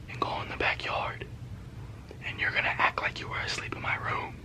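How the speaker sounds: hushed whisper, close to the mic. Acted. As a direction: whisper secret instructions to the girl. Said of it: "I whispered to the girl".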